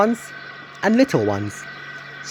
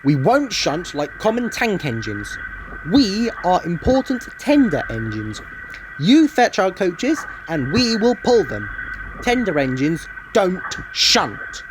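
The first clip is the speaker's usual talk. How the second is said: rude; 5 semitones higher than usual. Acted. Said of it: "said Gordon rudely".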